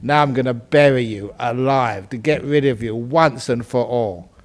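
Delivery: low, a touch of menace; lightly voiced cruel farmer; gloating farmer. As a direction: farmer telling the donkey he will bury him alive. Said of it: "the farmer said".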